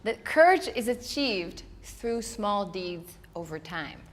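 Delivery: slowed right down, each phrase weighed; slow, deliberate. Shown as a demonstration. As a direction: regain composure and say it slowly. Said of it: "Big breath, focus".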